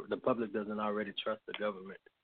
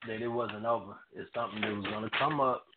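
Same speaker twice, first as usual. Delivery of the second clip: faint, distant phone voice; speaking far from the phone; far from mic. Real, not acted. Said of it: "We can barely hear you".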